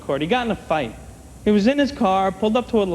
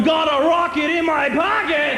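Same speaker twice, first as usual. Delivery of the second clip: put-on dumb teenage kid; 6 semitones higher, slower than usual. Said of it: "sitting there going".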